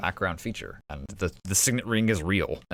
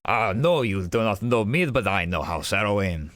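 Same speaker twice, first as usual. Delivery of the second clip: lightly voiced hearty dwarf noble. Dwarf noble greeting a friend of House Arrowin, hearty.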